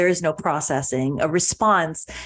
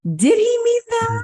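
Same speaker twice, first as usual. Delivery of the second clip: unsure inner question. Retold or imitated. Anxious self-questioning about insult.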